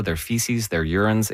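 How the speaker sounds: normal talking voice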